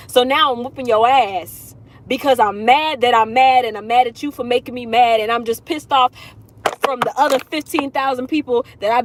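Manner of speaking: half-acted mad-that-I'm-mad outburst; mock furious rant. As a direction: build up the anger as the Taurus. Ranting as an angry Taurus.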